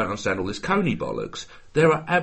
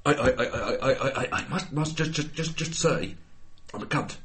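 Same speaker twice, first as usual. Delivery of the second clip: lightly voiced stammering Hugh Grant; Hugh Grant impression; 3 semitones higher, 4 dB quieter than usual. Friend doing Hugh Grant on a podcast, a light stammering impression. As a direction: stutter through it like a flustered Englishman. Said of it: "That's my Hugh Grant".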